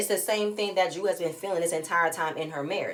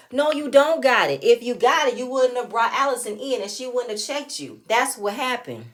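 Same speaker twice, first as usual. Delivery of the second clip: louder, higher callout; scolding; 5 semitones higher, 6 dB louder than usual. Real, not acted. Vlogger calling out Ralph, loud scolding. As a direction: shut his excuse down hard.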